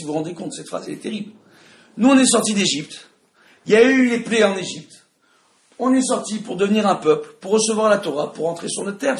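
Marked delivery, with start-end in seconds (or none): 2.0-9.2 emphatic, raised teaching voice; forceful but not shouting; speaking loudly. Real, not acted. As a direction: drive each point home loudly. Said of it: "Je suis désolé, je parle fort".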